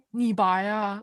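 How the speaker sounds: imitated authentic Dongbei accent. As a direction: say it like a Dongbei local. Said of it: "in this really authentic Dongbei accent".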